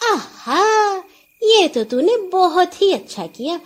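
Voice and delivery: high, laughing delight. A narrator's reading. Nora laughs with joy at the goat trade. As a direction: laugh as you praise him. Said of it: "نورا خوب ہنسی".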